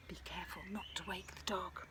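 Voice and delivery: soft whispered warning; whispering. Acted. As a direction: hush it so nobody wakes. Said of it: "she heard them whisper".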